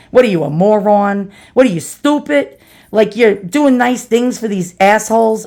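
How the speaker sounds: mother's New York accent, lightly put on. Mother chastising her child for being nice, New York accent. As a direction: imitate a scolding New Yorker with a New York accent. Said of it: "in her best New York accent".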